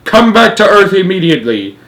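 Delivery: loud, high command; shouted order. A narrator's reading. President recalling his crew, shouting. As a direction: shout for an instant return. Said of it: "shouted the president".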